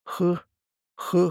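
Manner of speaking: dying rasp. A narrator's reading. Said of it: "хрипел он".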